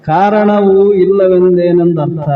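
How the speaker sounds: slow, drawn-out chant of the verse; slow Sanskrit verse recitation; scriptural recitation. Acted. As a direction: intone it like a sacred text.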